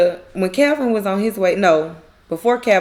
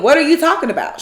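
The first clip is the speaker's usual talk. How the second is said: higher-pitched baffled question; retold confusion; 6 semitones higher, faster than usual. Karen asking Zach once again, acted confusion. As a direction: ask it as if thrown. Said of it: "She's clearly confused".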